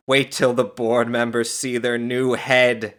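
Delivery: loud, slow relish; laughing glee. A narrator's reading. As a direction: gloat with delight. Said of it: "she laughed".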